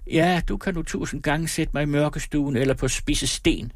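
put-on high shrieking old woman voice. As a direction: shriek it defiantly. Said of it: "skreg hun". (skrigende gammel kone)

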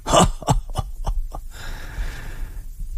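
mock shrill burst of laughter. A narrator's reading. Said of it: "brister i en skingrende latter". (skingrende latter)

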